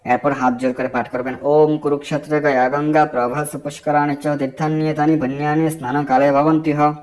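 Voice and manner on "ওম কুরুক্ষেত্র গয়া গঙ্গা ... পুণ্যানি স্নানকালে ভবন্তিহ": measured devotional recital; mantra recitation. Acted. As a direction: intone the mantra as a prayer.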